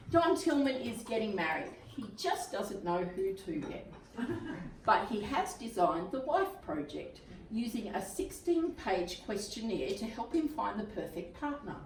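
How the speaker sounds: measured, lightly performed reading; blurb read-aloud. A narrator's reading. Teacher reading a romantic comedy blurb to a class, read-aloud voice. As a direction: read it out phrase by phrase, pausing between.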